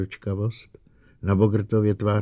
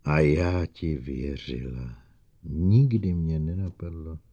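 lower, slow and bitter; betrayed and wounded; hurt disbelief; 3 semitones lower, slower than usual. Acted. (zraněná zklamaná)

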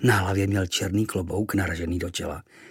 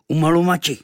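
smirking; 7 semitones higher, 8 dB louder than usual. Acted. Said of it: "ušklíbil a vyřkl zase".

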